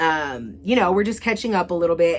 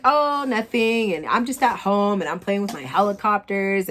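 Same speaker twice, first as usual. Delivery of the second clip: mocking the ex; 4 semitones higher than usual. Ex bragging about his helicopters, mild mock show-off voice. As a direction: drag out the oh like a show-off.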